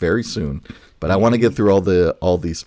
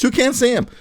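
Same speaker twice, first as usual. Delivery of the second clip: Toucan Sam voice; 4 dB louder than usual. Pretend. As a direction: squeal the name like a cereal mascot. Mascot name again in character.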